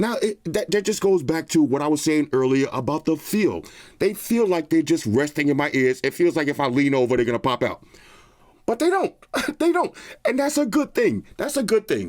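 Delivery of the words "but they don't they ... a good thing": very high, swooping, sing-song, delighted voice. Testing whether earbuds fall out after shaking head: high voice. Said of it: "Why am I taking it to the high voice?".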